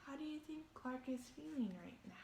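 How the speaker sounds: soft fast whispered question. Real, not acted. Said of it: "asks the listeners softly".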